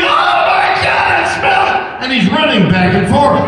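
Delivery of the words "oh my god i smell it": high, panicked mock scream; screaming like a kid. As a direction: shriek it like a scared little kid.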